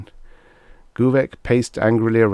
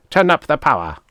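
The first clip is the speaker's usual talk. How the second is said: angry order; 8 semitones higher, 6 dB louder, faster than usual. A narrator's reading. Commander orders henchman angrily.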